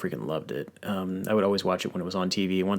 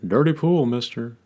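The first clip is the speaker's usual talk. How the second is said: much higher, louder, slow offended Texan drawl; Hank Hill voice; 7 semitones higher, 6 dB louder than usual. Retold or imitated. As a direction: scold the boy for cheating. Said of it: "Hank's like".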